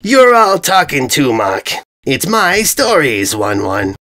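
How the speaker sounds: slow, petulant brute; lightly voiced dim invader sulking. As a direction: whine like a big armored oaf. Invader's tantrum.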